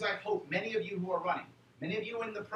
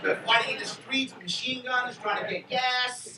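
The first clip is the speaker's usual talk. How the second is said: excited; 4 semitones higher, 9 dB louder, slower than usual. Real, not acted. Painting anarchy fears to crowd.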